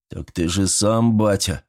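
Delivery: ordinary delivery, nothing marked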